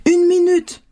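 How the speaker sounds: put-on high sing-out child's reply; child calling back. A narrator's reading. Daughter answers her mother's call from outside, calling back. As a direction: put off mom from afar, high.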